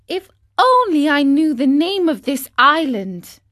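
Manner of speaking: put-on a little wooden boy wondering aloud; lightly voiced marionette, lost and longing; Pinocchio's voice. A narrator's reading. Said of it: "he said to himself".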